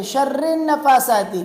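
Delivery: "شر" as "sharre", split from "نفاثات"; wrong joining. Shown as a demonstration. Teacher imitates friends' mistake, unjoined ra and nun. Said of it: "را کو نون کے ساتھ نہیں ملاتے".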